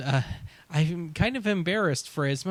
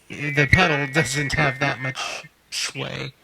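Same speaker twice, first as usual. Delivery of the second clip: modulated effect voice. Shown as a demonstration. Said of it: "playing with the depth".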